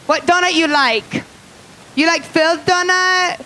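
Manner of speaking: put-on high, loud donut clerk with Asian accent; mock Asian accent. Jelly Donut clerk greeting a customer, loud mock Asian accent. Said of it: "this is how they talk".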